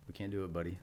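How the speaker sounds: quiet, even retold reply; very calm. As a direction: let a buddy down gently, unfazed. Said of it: "like, very calmly".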